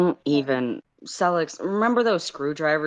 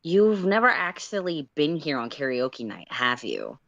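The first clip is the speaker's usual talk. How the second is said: faux innocence. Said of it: "faux innocence in his voice".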